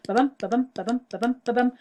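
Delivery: "ba-bum" with weak "ba" and punched "bum"; teacher chanting "ba-bum" to show unstressed then stressed; iambic rhythm demo. Shown as a demonstration. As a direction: tap out the iambic beat, stress on "bum" each time. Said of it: "Unstressed syllable followed by stressed syllable".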